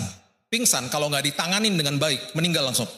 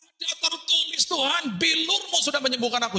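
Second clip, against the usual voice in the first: crying out scripture; 12 semitones higher than usual. Retold or imitated. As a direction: proclaim it as a desperate cry to God. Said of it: "Saya teriak".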